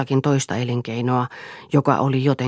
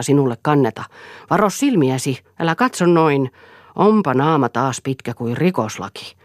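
louder, defiant outburst; lightly voiced raging Eero; 4 dB louder than usual. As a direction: throw out the accusations with raised voice. (hieman korotettu, uhmakas ääni)

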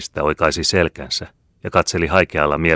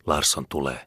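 hushed, softer warning to a neighbour; whispered warning; 5 dB quieter than usual. A narrator's reading. Worker whispering to neighbour that Larsson is coming, hushed. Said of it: "kuului hänen naapurinsa kuiskaavan".

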